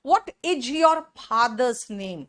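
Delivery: heavy Hindi-belt accent, IJ for "is"; overdone mother-tongue accent, hard R, PH in father. Shown as a demonstration. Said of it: "is को इज बोल दिया and father को फादर". (भारी देसी लहजे में अंग्रेज़ी)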